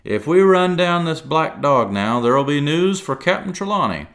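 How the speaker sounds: high, loud, eager rush; excited. A narrator's reading. Silver putting on excitement for Jim, loud. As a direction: fake a show of excitement. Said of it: "now quite excited".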